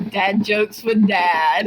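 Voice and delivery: slow, drawn-out title reveal; segment announcer. Pretend. Host unveiling a new podcast segment, slow announcer delivery. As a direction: announce it slowly like a show segment.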